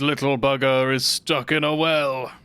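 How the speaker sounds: Dormin impression. Streamer doing the game's god Dormin, slow mock-solemn. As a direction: intone it like an ancient spirit giving orders. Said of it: "That's my Dormin impression".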